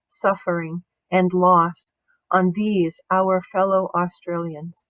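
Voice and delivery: measured, solemn reading of an apology; formal speech reading. Acted. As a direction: read it out deliberately, pausing between phrases. Reads a national apology speech.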